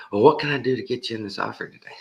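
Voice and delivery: high, fast pushy plea; upset salesman. Retold or imitated. Salesman getting upset with the caller, high and fast. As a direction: push hard to close the sale. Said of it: "upset salesman pushing".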